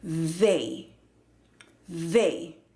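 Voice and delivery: THEY drawn out with an "ei" glide; diptongo A. Shown as a demonstration. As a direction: hold the "ei" diphthong in THEY. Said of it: "es con el diptongo A". (THEY con diptongo "ei", alargado)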